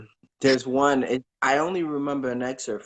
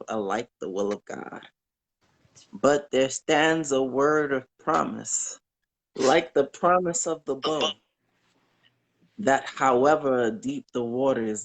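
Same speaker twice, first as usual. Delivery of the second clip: poem recital. Acted. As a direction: read it like a comforting hymn.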